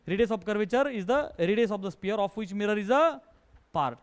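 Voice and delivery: each word spaced out for copying; slow dictation. Shown as a demonstration. Teacher dictating a definition to the class, slow and even. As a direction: read it out slowly so students can write it down.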